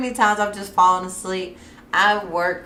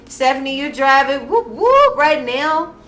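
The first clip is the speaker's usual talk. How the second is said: playful teasing; 8 semitones higher, 8 dB louder than usual. Real, not acted. Teasing a friend on the show.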